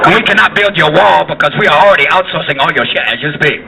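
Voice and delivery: mock Chinese accent. Chinese telling Arnold why no wall, Chinese accent. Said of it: "even the Chinese go".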